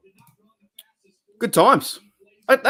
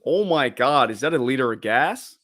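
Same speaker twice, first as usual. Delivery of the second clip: mock American accent; 3 dB louder than usual. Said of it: "the American accent".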